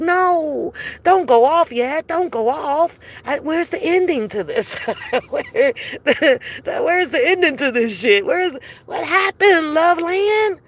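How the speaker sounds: begging the video not to end, laughing; mock pleading. Viewer begging the YouTube video not to stop, mock pleading. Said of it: "I'll be like".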